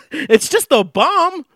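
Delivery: high, slow words broken by laughter; laughing. Real, not acted. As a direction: laugh through the punchline. Laughing about the mortar.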